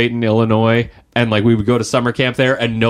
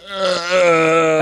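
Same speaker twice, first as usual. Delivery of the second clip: mock disgusted groan; 6 semitones higher than usual. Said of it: "and there's like".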